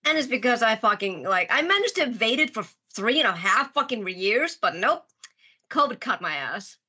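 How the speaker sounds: stuffy, nasal voice. Real, not acted. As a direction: talk with a blocked nose. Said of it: "my voice is a little still nasally".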